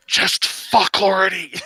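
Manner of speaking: mock character line. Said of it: "our main character said".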